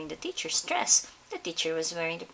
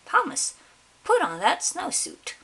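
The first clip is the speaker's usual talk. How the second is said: much higher and louder command; teacher's angry order; 10 semitones higher, 6 dB louder than usual. Acted. Teacher losing patience with Thomas, high loud command. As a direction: snap the order at him.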